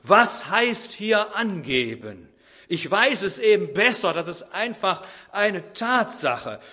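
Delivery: retold husband flaring up loudly; agitated shout. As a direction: call it out, heated and indignant. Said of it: "da ist der Vater erregt und er ruft".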